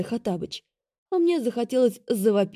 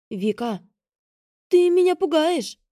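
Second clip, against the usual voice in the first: nervous, higher frightened plea; nervous whisper; 9 semitones higher, 5 dB louder than usual. A narrator's reading. Sister nervously pleading with Vika. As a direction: sound scared for her. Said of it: "зашептала сестра нервно".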